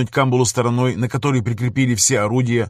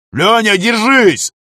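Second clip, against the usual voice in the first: higher, louder, slow yell before impact; shout; 10 semitones higher, 7 dB louder, much slower than usual. Acted. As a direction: scream the warning as the blow hits. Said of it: "кричит Захар".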